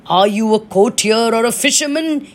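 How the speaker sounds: the king roars at his courtier; roaring king. Acted. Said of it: "he roars in anger and he says".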